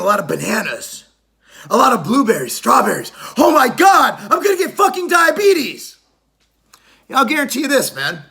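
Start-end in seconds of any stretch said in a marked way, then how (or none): 3.4-6.0 mock panic. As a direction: pretend to freak out over the fruit. Mock panic over eating fruit.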